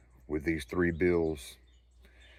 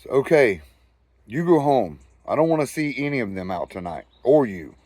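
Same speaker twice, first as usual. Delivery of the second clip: stern cop; 3 semitones higher, 3 dB louder than usual. Retold or imitated. Cop ordering them home.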